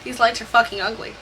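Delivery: lightly voiced Southern stepfather, low and soft; a hint of Southern US drawl. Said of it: "in all his southern drawl".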